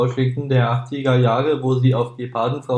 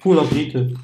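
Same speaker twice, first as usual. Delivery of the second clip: mouth full. Real, not acted. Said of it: "red nicht die ganze Zeit voll Mund".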